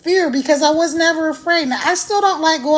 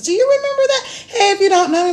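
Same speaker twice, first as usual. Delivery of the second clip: laughing; 6 semitones higher, faster than usual. Real, not acted. Laughs mid intro.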